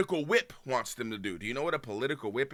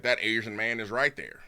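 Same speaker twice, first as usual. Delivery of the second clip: Southern twang; 5 semitones lower than usual. Acted. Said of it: "same Southern twang for both the white racist".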